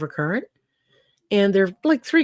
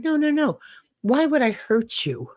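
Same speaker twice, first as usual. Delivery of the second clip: higher-pitched acted reassurance; mock-innocent pleading, pitched up; protesting innocence; 6 semitones higher than usual. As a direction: play a scorpion talking the frog round. Scorpion protests innocence in story.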